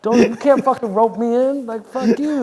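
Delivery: high, loud, half-laughing rebellion; loud laughing mock defiance; laughing mock outburst. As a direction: snap back at authority while cracking up.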